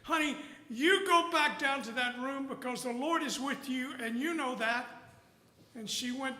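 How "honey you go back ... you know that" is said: frustrated dad. Retold or imitated. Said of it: "he was frustrated".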